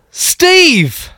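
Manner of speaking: Steve sung out high and falling; mock fanfare for the name; high sing-song name. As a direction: announce Steve with a playful swoop.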